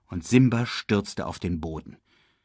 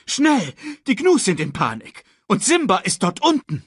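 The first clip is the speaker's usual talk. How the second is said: high, louder feigned alarm; urgent villain; 11 semitones higher, 4 dB louder than usual. A narrator's reading. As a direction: fake urgency to lure his brother. Scar urges, high put-on voice. (Scar, hoch und gespielt dringlich)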